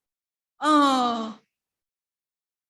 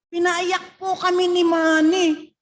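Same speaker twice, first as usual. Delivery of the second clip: louder, slow, higher telling; emotional report; 7 semitones higher, 11 dB louder, slower than usual. Retold or imitated. Rhea phoning her sister, slow, emotional report. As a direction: stretch it out, moved and urgent.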